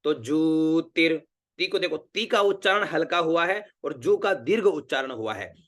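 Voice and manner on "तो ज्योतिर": ज्योतिर with a long जू and a light ती; slow careful pronunciation. Shown as a demonstration. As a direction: lengthen जू and keep ती light in ज्योतिर. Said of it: "जू दीर्घ है और ती छोटी है".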